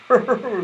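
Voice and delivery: short happy laugh; delighted little laugh. A narrator's reading. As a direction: laugh with joy. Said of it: "the delighted rabbit".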